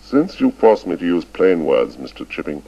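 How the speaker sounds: cold, clipped headmaster reproof; icy. A narrator's reading. Headmaster scolding old Chips, icy and cutting. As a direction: lay it out coldly and deliberately. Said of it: "till at last Ralston said icily".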